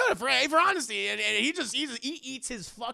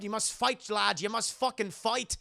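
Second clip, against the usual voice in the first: raised, insistent priest voice; urging priest; 5 semitones higher than usual. Retold or imitated. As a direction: exhort the boy to battle on. Priest urges possessed boy to fight.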